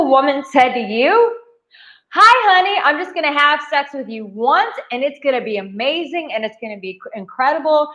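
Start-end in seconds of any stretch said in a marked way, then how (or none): 2.1-7.9 mock wife voice. Imitating a wife offering sex once to her husband, mock sweet. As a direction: imitate a sweet wife making a one-time promise.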